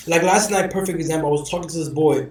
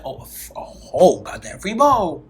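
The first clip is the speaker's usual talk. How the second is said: amazed; 4 dB louder than usual. Retold or imitated. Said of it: "I said".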